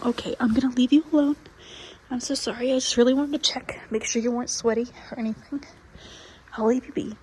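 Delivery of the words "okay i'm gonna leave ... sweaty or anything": whispering. Real, not acted. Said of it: "trying not to talk too loudly".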